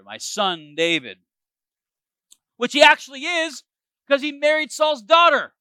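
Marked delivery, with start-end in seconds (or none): 0.0-1.2 slower, softened and tender; a king suddenly tender toward the son he hunted. Shown as a demonstration. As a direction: let the tone melt into affection. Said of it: "his tone has changed here".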